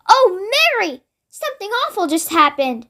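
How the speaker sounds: a light touch of a royal lady, upset; lightly voiced queen, troubled; the Queen's voice. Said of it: "a very well-known voice".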